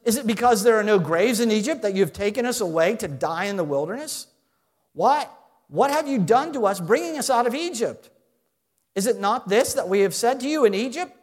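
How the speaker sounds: sarcastic. Retold or imitated. Israelites sneering at Moses, sarcastic complaint. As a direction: jeer at Moses like a sulky crowd. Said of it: "notice the sarcasm".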